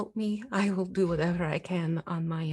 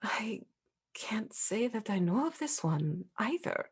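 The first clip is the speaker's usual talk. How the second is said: whispering; 5 dB quieter than usual. Acted. Ghost character, hushed reply.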